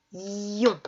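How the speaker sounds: "ion" alone, long i into nasal on; drawn-out I. Shown as a demonstration. Teacher naming the sound heard in pion, i drawn out. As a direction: hold the i of "ion".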